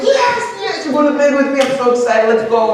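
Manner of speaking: very high-pitched giddy celebration; squealing yes, voice way up; overjoyed. Retold or imitated. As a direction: re-enact a kid exploding with excitement. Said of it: "oh, my face lit up".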